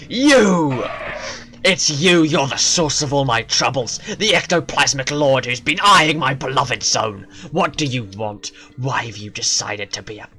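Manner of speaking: lightly voiced furious guardian, loud on the accusing start; angry guardian. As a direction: accuse him, then shove him off. Guardian confronts the purifier.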